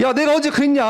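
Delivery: high-pitched wronged whine; imitated teenage upset; mock tearful protest. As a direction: protest as if wronged, half in play. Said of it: "하면서 막 이렇게 눈물 흘리면서".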